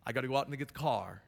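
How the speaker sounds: quick, light imitation of Boston speech; Boston accent. Shown as a demonstration. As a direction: toss it off with a hint of Boston accent. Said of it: "the, the Boston accent".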